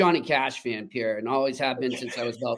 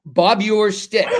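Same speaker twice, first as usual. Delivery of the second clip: laughing punchline; 4 semitones higher, 5 dB louder than usual. Real, not acted. Punchline of funny story.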